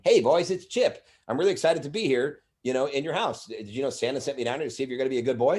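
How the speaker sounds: put-on a friendly elf greeting kids; elf Chip. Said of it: "his name was Chip".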